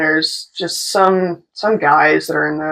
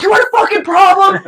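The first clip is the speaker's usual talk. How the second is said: high-pitched aggressive challenge; re-enacted fighting words; confrontational shout; 12 semitones higher, 4 dB louder than usual. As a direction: yell it as a threat. Retold confrontation.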